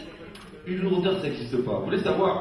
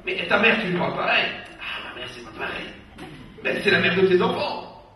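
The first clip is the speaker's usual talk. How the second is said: mock scolding; 2 semitones higher, 4 dB louder than usual. In-law scolding the husband about how he talks, loud. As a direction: scold him about his wife.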